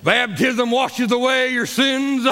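put-on slow, drawn-out old preacher; old-timey preacher voice. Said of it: "I'll try to do it in an old-timey preacher, uh, voice".

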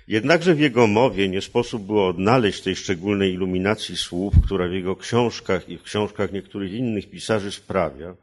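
careful, rhythmic reading of prose; literary reading. Acted. Translator reads his own version of the passage, measured literary reading. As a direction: read the long sentences aloud, weighing each phrase.

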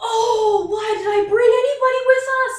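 high, loud panicked wail; panicked cry. Acted. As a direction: cry out in mock horror.

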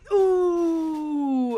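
loud crowd wince; crowd ooh. Acted. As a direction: groan like a whole crowd. Crowd reacting to knockout.

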